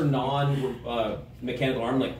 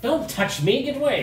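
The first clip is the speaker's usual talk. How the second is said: high squeal; 10 semitones higher than usual. Acted. NPC recoils from touch.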